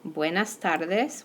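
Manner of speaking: TARDES slowly, its D softened toward "th"; slow "Buenas tardes" with a soft th-like D in "tardes"; soft Spanish D. Shown as a demonstration. Teacher modelling "tardes" for students, slow with soft D. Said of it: "your D is gonna be soft".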